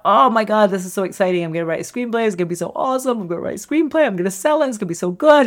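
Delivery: rising, eager first-timer; mock giddy enthusiasm; excited. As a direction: play the thrilled newcomer to screenwriting. Imitating an excited first-time writer.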